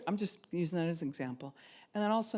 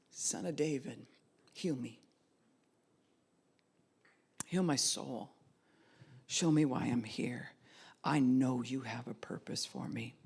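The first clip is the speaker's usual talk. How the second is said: softer earnest prayer; 3 semitones lower than usual. Shown as a demonstration. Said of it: "Faith is when you cry out to him".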